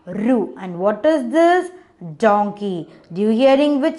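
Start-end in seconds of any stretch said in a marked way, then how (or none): 0.1-0.5 "Ru" as an isolated R with a short oo; letter sound. Shown as a demonstration. Teacher answers what sound R makes, letter sound. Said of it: "What is the sound of the R?".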